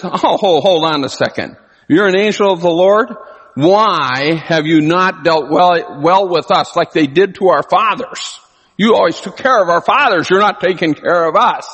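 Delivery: Oh hold on, you're not doing your job; indignant protest. Retold or imitated. Preacher voicing Gideon complaining to the angel, indignant.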